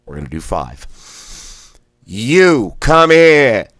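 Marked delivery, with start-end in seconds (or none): 2.0-3.7 "You, come here" blasted high and loud, one breath; blasted words. Shown as a demonstration. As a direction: shoot each word out on one breath. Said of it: "blast out all three words individually".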